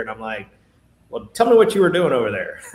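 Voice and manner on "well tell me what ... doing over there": laughing retort. Retold or imitated. Retort to customers' wine complaint.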